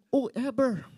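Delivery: Kapampangan "whoever" with the H dropped; joking Kapampangan accent, B for V in "whoever". Acted. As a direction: say "whoever" as "oo-eber", Kapampangan style. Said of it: "if you are Kapampangan".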